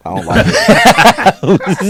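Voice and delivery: high, slow, whiny; mock whine. Joking about space racism.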